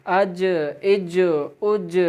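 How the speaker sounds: اج with a bouncing echo on the final ج; slow اج, the ج bounced back; echoing qalqala. Shown as a demonstration. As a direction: release the ج of اج with a short rebound. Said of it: "جیم میں بھی آواز لوٹے گی".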